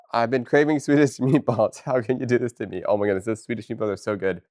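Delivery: loud, laughing, fast; craving meatballs. Real, not acted. Streamer gushing about Swedish meatballs, excited. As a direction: gush about the food.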